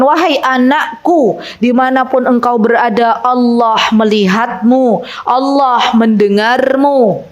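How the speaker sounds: put-on slow, gentle, earnest words to a child; tender counsel. Shown as a demonstration. Ustazah shows parents how to counsel their child, slow and tender. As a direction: lay each phrase down slowly like a loving mother. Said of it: "yang pertama kali kita harus ajarkan".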